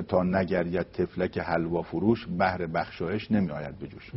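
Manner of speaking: unhurried Persian poetry chant; poem recitation. Acted. Recites the couplet again.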